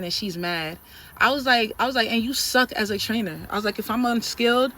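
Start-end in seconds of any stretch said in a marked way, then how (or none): 2.1-3.4 loud angry insult. Retold or imitated. Insulting the trainer. 3.8-4.7 loud angry comeback. Retold or imitated. Insulting the trainer.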